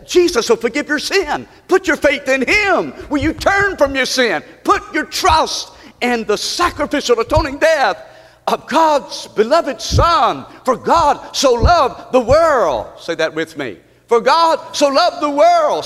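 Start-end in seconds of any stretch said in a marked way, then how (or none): 0.1-12.9 raised, ringing gospel appeal; impassioned preaching. Real, not acted. 14.1-15.8 raised, emphatic scripture recital; impassioned preaching. Real, not acted. Leads congregation in verse.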